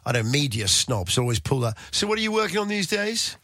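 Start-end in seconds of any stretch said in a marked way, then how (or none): 1.9-3.4 mock snob. Media snob asking condescendingly.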